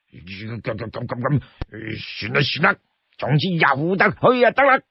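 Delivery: stutter, then give up; brute giving in. Acted. The brute stammers and gives in to his companion, grudging.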